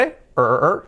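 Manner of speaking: ER repeated as a bare English r-vowel; isolated R sound. Shown as a demonstration. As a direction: hold the tongue back on each ER. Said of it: "pero acaba en R".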